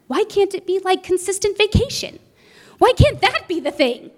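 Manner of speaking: mild mock whine to her husband; retold whining plea. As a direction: beg for an easy life, a touch tearful. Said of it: "I sat there crying to him".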